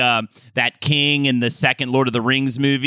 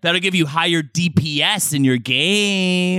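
talking loot box. Pretend. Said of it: "I'm a talking loot box wizard".

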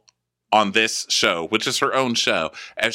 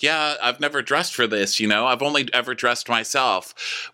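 a lightly higher mock defensive voice; imitating Mikkel; 5 semitones higher than usual. Podcaster mimicking Mikkel on the uniform, lightly higher mock pride. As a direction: brag it as a clueless guy. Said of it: "And he's like".

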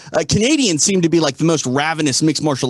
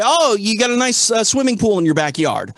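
put-on Boston accent; 4 semitones higher than usual. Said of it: "if I'm in Boston, I'm gonna say".

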